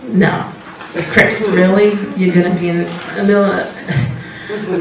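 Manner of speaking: gently amused divine voice; a laughing, loving voice of God. Retold or imitated. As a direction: tease Chris kindly, with a chuckle. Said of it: "God so lovingly said".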